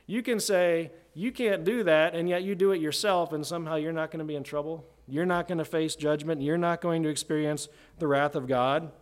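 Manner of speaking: sarcastic paraphrase, easing back down toward the end; Paul's sarcasm. Acted. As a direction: challenge them with mock disbelief. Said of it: "almost sarcasm just, just dripping".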